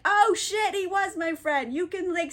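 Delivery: hammed-up sudden recognition; surprised realization. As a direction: react with a mock "oh wow" lift. Duke learns who Orlando is.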